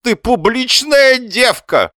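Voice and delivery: very high, slow, loud moan; wailing, wounded husband; drawn-out whine. A narrator's reading. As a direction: stretch the insult into a lament. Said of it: "тягуче заныл он".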